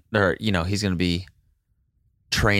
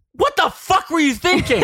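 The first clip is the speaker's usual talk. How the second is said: loud, very high, laughing through it; laughing outburst; 5 dB louder than usual. Acted. Burr scolding Hamilton, a loud laughing outburst. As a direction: lose it mid-line.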